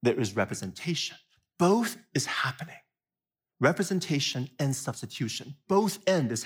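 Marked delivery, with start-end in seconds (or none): 1.6-2.8 whisper. Real, not acted. Stressing both ideas, whispered.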